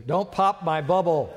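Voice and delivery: mock pleading to the congregation. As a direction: raise it into a playful plea. Preacher repeats plea louder.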